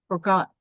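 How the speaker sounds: forGOT, second syllable stressed. Shown as a demonstration. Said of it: "The stress follows on the second".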